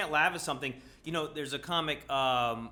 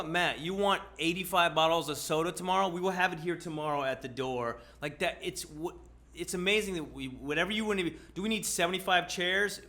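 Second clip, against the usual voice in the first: mock salesman hype; 4 semitones higher than usual. Mocking Amazon's instant delivery promises.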